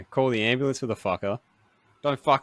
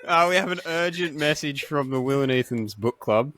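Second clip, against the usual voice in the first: mock news read; 5 semitones higher than usual. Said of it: "urgent news bulletin".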